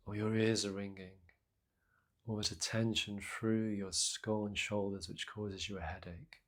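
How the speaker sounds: soft, unhurried meditation guidance with long pauses; guided meditation. Acted. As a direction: gently guide listeners into their breath and body. Leads a breathing meditation.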